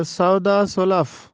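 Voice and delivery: vowel before the final f of سلف; correct pronunciation. Shown as a demonstration. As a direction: say سلف in سودا سلف as two syllables, "sulaf". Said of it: "اس کا درست تلفظ ہے". (سلف کو دو حصوں میں "سُلَف" پڑھیں)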